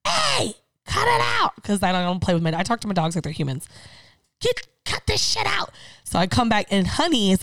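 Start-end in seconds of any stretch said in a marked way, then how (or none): 0.1-1.5 high, slow shout of "cut it out"; retold yell at dogs. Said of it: "she hears me scream". 4.4-5.7 retold yell. Yelling at fighting dogs.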